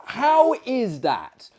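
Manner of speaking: high, loud shouted question; shouting. Acted. Narrator shouting his question into the host's ear at the party. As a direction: call out over a noisy party. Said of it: "screaming in his ear".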